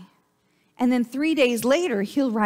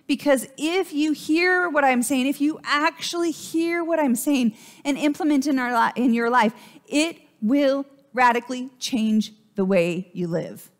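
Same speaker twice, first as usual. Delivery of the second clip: urgent call; 4 semitones higher than usual. Retold or imitated. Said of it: "It's more of a".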